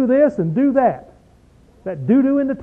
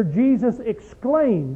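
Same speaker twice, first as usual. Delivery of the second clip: slow, drawn out; 3 semitones higher, much slower than usual. Shown as a demonstration. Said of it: "spoke with a very loud voice".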